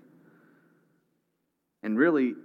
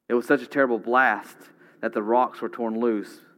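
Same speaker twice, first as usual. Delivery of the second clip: louder, driving the storm home; booming preaching; 4 dB louder than usual. Real, not acted. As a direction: preach the blast with force.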